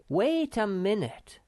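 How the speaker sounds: loud, urgent interruption; crying out. A narrator's reading. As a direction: cut him off urgently. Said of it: "cried Snufkin".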